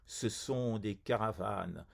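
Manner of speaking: measured poem reading with a narrow, even melody; poetry recitation. Acted. Poet reading a ghazal on Samarcande to poetry lovers, measured recitation. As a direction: recite the verse evenly, phrase by phrase.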